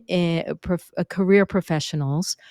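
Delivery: normal talking voice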